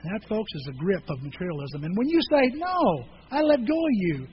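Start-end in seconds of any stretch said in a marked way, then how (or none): 1.8-4.3 higher and louder; preaching emphasis. Real, not acted. Pastor to congregation, firm defiant declaration. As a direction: declare it firmly.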